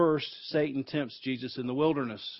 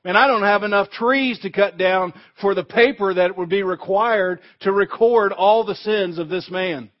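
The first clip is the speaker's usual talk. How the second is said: loud, higher gloating accuser; gloating Satan; 4 semitones higher, 9 dB louder than usual. Retold or imitated. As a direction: crow over the sinner's record. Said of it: "Satan's standing there and say".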